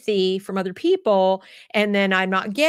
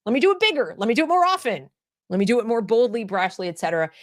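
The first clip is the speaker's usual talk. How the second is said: pitched-up imitation of a show-off teen; mock dramatic kid; 3 semitones higher, faster than usual. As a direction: voice the kid who wants to go bigger. Mocking a child escalating the drama.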